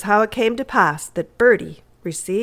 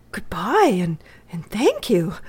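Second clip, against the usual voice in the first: stammering. Acted. Boy thanking Edith at the door, stammering. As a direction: stumble shyly over the thanks. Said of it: "stammered Bertie".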